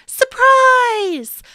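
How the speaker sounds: high, loud joyful surprise; surprise shout. A narrator's reading. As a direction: burst out with surprise. Door opens on surprise.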